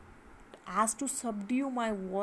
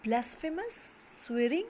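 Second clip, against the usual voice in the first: cursing. Acted. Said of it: "he's cursing him".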